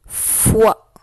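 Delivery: FOI with a lengthened f; dictation. Shown as a demonstration. Teacher dictating the third syllable to pupils, dictation voice. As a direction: dictate FOI as one careful, isolated syllable. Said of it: "Je vais te dicter les syllabes".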